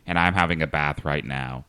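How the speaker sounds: light Scottish accent; a hint of Scottish in a walk-through. Shown as a demonstration. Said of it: "I'd switch to Scottish".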